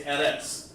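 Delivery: "Eretz" as a two-syllable EH-rets; "Eretz" with short E vowels and ts; mimicked mispronunciation. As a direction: act out someone wrongly teaching "Eretz". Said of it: "I'll show 'em how to say Aratazah".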